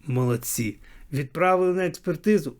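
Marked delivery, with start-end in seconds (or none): 0.1-0.8 low, quiet, dry "well done"; sarcastic praise. Acted. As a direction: drop it low and soft, mocking them. Sarcastic praise of customs officers. (саркастично, тихо й низько)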